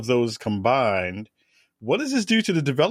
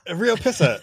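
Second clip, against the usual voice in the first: put-on Boston accent; 8 semitones higher, 3 dB louder than usual. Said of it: "Ben Affleck out there with his Boston accent".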